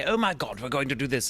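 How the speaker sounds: lightly played foppish British, pitch up on the first words; a hint of an over-the-top British toff. A hint of foppish British for Hammerlock. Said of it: "just very foppish British".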